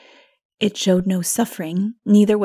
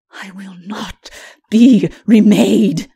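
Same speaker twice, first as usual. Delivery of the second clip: much louder, slow, defiant; defiant refusal; 11 dB louder, slower than usual. A narrator's reading. Lilith refuses Mara's offer, slow, loud and defiant. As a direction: spit out the refusal.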